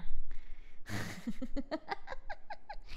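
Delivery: breathy laugh climbing in pitch; rising laugh. Real, not acted. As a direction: laugh without voice, then rise. Laughs after fixing the stream.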